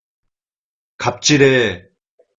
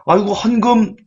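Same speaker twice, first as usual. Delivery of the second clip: much higher, scornful sneer; sneering mockery; 12 semitones higher than usual. A smug believer sneers at small offerings, much higher and scornful. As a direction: scoff at their tiny offering.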